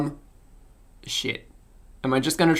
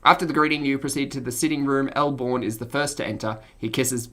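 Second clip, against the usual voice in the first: lower, even, softer storytelling; game master's narration; 3 semitones lower, 5 dB quieter than usual. Acted. Game master describing a family greeting, measured narration. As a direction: narrate the scene evenly.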